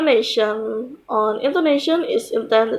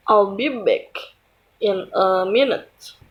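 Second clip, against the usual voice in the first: "minute" dropping in pitch at the end; falling intonation on MINUTE; 2 semitones lower than usual. Shown as a demonstration. Teacher reads a statement example to learners, falling intonation on "minute". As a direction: let the voice fall on "minute" to close the statement. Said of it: "the pitch of the voice falls at the end".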